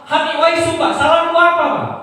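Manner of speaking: high, loud pleading shout; hysterical yelling, re-enacted. Beaten son protests his innocence to his father, re-enacted hysterical yelling. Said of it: "saya berhenti, saya teriak-teriak".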